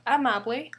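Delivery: "amable" stressed on the first A; wrong first-syllable stress. Shown as a demonstration. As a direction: say "amable" as A-ma-ble. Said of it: "That's why we pronounce it as amable, not".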